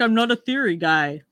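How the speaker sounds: light impression of a man's catchphrase; Steve Gupta. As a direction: do a slightly put-on theory-skeptic voice. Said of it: "That's my best Steve Gupta impression".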